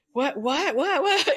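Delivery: flustered stammer dissolving into laughs; retelling her own panic at the secretary, laughing. Retold or imitated. Panicked teacher, retold, laughing.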